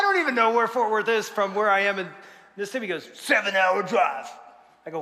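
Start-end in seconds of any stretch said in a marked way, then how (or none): 3.1-4.3 slow, drawn-out Southern drawl; Southern accent. Retold or imitated. Husband explains the long trip, slow Southern drawl. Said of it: "That's how he talked".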